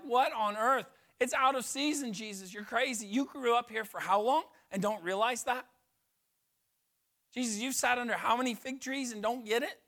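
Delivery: a lightly voiced incredulous disciple. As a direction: play the baffled disciples scolding Jesus.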